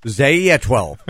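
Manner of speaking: "Zaye" said as zay-EE-uh, then twelve; invented name pronunciation. Shown as a demonstration. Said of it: "how do you pronounce that".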